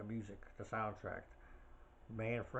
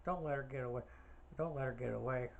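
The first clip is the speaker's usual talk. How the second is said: Mrs. Voorhees; 3 semitones higher than usual. Retold or imitated. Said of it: "and she goes".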